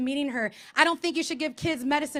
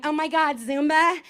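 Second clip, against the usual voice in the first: put-on perky gym girl; 3 dB louder than usual. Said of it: "skinny girls are like".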